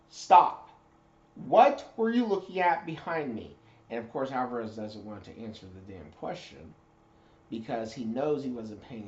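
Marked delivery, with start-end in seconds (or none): 0.1-3.5 barked shout, way up high and loud; high, loud drill instructor shout; drill instructor yell. Retold or imitated.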